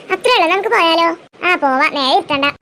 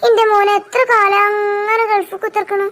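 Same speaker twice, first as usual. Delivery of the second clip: tearful lament; 4 semitones higher than usual. Acted. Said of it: "അതാ മക്കളൊക്കെ കരയണ്".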